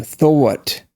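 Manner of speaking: New York "thought" with an inserted W, thwaw-uht; New York accent. Shown as a demonstration. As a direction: let a W glide into "thought", New York style. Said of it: "listen for the W".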